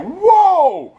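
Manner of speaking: high, drawn-out mock cry of alarm; whole crowd crying out at once, hammed up; alarmed exclamation. Room reacting to the queen's attack, mock alarm.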